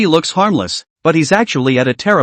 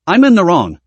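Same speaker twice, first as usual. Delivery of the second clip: a raised, clipped burst of frustration, not a full yell; mild scream. Acted. Woman at the end of her rope snaps at Sui, a mild narrated scream. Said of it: "she screamed".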